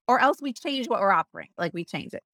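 normal talking voice

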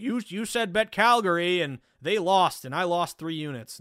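lightly voiced aggrieved beginner; complaining new bettor. Tipster imitating a new bettor blaming him for a loss, lightly mock-complaining. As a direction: mildly mimic a novice's protest. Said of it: "I'd hate to see a new better".

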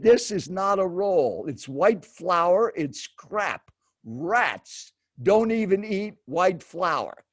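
slow, emphatic mock lecture; retold seatmate's scornful pronouncement; imitated scornful rant. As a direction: spell out the disgust word by word, mildly acted. Imitating seatmate's rant about food.

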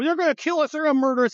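high-pitched, hammed-up terror; mock panic. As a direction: overplay the fear to mock them. Mocking the alarmed side.

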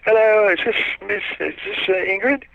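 high, small put-on official voice; a prim little caller's voice, pitched high; quiet little voice. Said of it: "kind of a quiet little voice".

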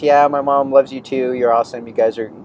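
mock polite goodbye. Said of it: "I kindly waved them goodbye".

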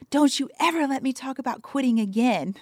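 half-laughing mock yell, pitched high; snapping at him in fun, half laughing; retold angry yell. Yelling off the bike at Jason, half-laughing mock anger. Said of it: "I started screaming at Jason".

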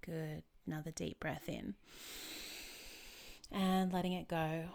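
calm, unhurried instructions with long pauses; guided meditation. Real, not acted. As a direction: lead a relaxation exercise gently.

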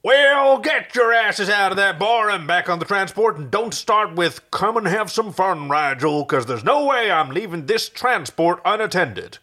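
high, loud bellowed orders; bellowing. Acted. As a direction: roar at the crew to get back to the transport. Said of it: "Crichton bellowed".

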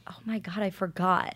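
breathy whisper, barely voiced; whispered realization. Cohost reliving his shock at the episode, in a whisper. Recalling own shocked reaction.

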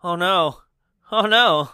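half-hearted mock "oh no"; unconcerned mock dismay. Host mocking unconcerned actors in the car, half-hearted dismay. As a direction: imitate a bad actor feigning worry. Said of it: "this is the level of acting".

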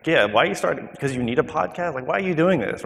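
a hint of a puzzled wife's voice; questioning wife. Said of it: "My wife asked me".

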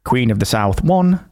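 reading scores like an eighties results announcer; lightly voiced results announcer; football results reader. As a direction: read it like the Saturday results. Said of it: "And then you'd hear".

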